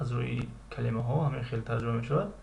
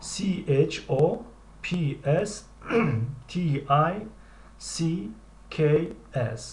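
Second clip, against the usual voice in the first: slow letter-by-letter spelling, a bit higher; spelling aloud; 3 semitones higher, much slower than usual. Shown as a demonstration. Teacher spells the word slowly for students. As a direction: spell each letter out clearly.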